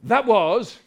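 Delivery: loud, slow, stretched-out reveal; big dramatic answer; grand announcement. Acted. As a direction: proclaim it slowly, drawing out each word. Acted grand reply in a story.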